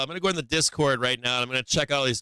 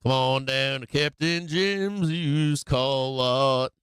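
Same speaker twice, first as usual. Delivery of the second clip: lightly voiced car ad pitch; 2 semitones higher, slower than usual. Car ad again.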